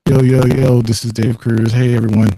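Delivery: choppy, breaking-up audio; choppy bad connection. Real, not acted. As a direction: voice cutting in and out like a bad line. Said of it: "Still sounds like a bad connection".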